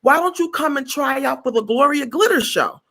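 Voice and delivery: high, cheerful invitation; upbeat high offer; high friendly invite. Retold or imitated. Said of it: "And he was like".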